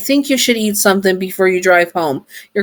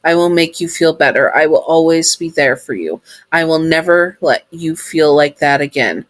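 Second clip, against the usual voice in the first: tender promise. Acted. Sun promising comfort.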